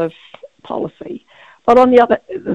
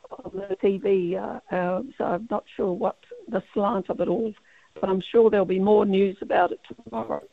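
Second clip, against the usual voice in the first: croaky voice. Real, not acted. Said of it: "you've got a bit of a croaky voice there".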